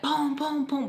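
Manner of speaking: spoken booms for fist blows; imitated door pounding. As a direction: voice each thump on the door. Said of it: "pounding on the door".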